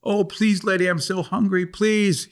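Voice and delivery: high, pleading little dog voice; begging dog. Acted.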